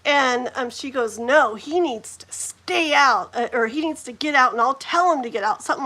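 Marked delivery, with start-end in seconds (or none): 1.2-5.6 imitating a mean mom; firm mock telling-off, mildly done; really mean. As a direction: retell her meanness with emphatic words. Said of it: "Like, really mean".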